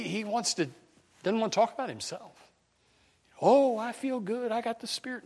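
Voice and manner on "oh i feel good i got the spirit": lampoon their self-satisfied feeling; mocking imitation. Mocking people who emphasize the Spirit.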